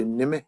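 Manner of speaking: Nime with both syllables kept very short; real short syllables. Shown as a demonstration. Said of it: "say these real short".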